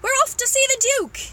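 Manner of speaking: high, loud announcement; excited cry. Acted. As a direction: cry it out, thrilled to be off. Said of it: "cried the monkey".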